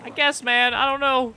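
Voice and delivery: high, hammy pirate; lightly voiced pirate. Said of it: "if I do it in a pirate voice".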